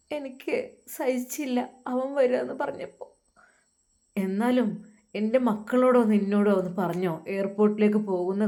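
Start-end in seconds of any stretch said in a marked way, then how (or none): 0.1-3.0 hurt wife. Acted. Wife voiced.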